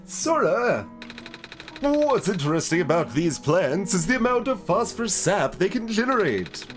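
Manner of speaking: talking plant holding forth with stretched words; potted plant voice. Acted. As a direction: declaim as an animated potted plant. Voices plant-keeper character in game.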